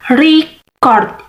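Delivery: "Record" with CORD stressed, as a verb; stress on second syllable. Shown as a demonstration. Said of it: "stress is on the second syllable".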